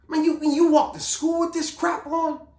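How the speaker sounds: high, slow, incredulous scold; exasperated scolding. Retold or imitated. Guard scolding a student for his chains, high and slow. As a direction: stretch it out in disbelief.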